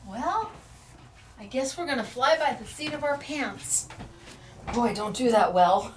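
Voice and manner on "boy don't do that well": laughing. Real, not acted. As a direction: laugh it off at herself. Laughs at her own line.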